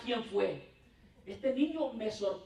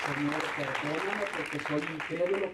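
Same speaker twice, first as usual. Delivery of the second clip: retold prayer; 2 semitones lower than usual. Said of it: "yo dije".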